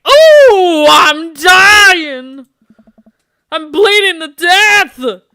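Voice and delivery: very high, loud cartoon wail; over-the-top cartoon death cry; Mel Blanc scream. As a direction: scream like a Looney Tunes character dying. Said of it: "like, a Mel Blanc scream".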